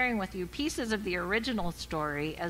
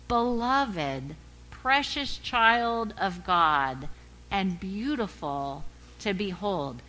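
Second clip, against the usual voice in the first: class response; 3 dB louder, slower than usual. Retold or imitated. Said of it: "the class learned to respond".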